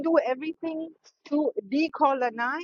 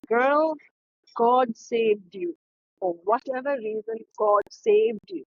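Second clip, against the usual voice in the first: reassuring; 2 semitones lower than usual. Retold or imitated. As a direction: soothe her like a caring friend. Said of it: "Why don't you just say".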